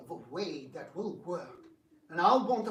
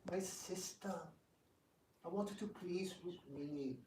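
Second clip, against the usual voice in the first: weary sigh; 8 dB quieter than usual. Acted. Rukmi sighing over his sister.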